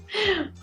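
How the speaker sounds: rueful little laugh; short laugh. Real, not acted. Laugh at marriage question.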